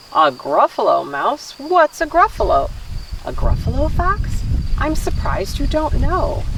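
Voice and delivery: lively picture-book read-aloud; story reading to children. Acted. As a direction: read it to little ones with gentle expression.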